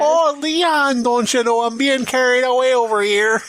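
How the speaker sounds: a helpless damsel calling to Leon; high mock damsel in distress; Ashley voice. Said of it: "Ashley talks like that".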